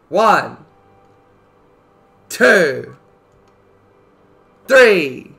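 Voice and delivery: slow shouted countdown; loud countdown. Real, not acted. Countdown to start game.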